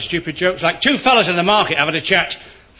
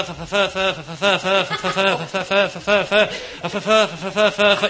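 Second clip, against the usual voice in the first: stammer. Acted. Stammering punter in bookie.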